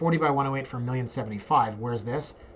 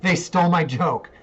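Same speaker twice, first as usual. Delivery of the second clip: laughing, raised-voice protest; amused complaint; 4 semitones higher, 5 dB louder than usual. Real, not acted. Host finding the listing stole their joke, amused complaint. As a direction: say it louder through a laugh.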